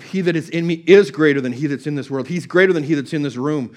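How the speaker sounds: firm, heartfelt declaration of scripture; alive with conviction. Retold or imitated. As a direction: declare it as living truth. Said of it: "No, it was alive".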